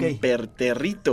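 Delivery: «impertérrito» despacio, sílaba por sílaba; dicho lento. Shown as a demonstration. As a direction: estira cada sílaba de «impertérrito». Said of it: "por decirlo lento". («impertérrito» dicho lento)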